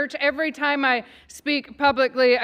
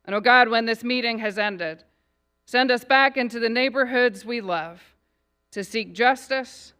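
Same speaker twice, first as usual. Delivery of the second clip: measured public prayer, phrase by phrase; invocation prayer; 3 dB louder than usual. Acted. Pastor blessing the city council before the meeting, in prayer. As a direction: pray over the city, unhurried and solemn.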